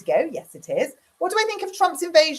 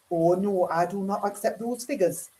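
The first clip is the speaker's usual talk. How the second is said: lightly mimicked politician, a bit lower; Bridget Phillipson; 3 semitones lower than usual. Shown as a demonstration. Vlogger mimicking politician rejecting figures, put-on voice. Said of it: "it doesn't actually sound anything like her".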